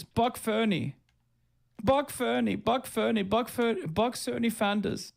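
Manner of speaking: squeaky mocking echo of the chat; high mock repeating. Mocking chatter's garbled name.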